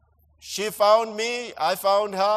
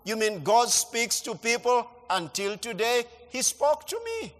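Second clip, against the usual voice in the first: excited retelling; 3 semitones higher than usual. Retold or imitated. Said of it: "telling my mom".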